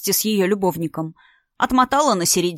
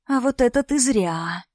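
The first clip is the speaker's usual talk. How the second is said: drawn out; 4 semitones higher than usual. Acted. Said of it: "протянула Настя".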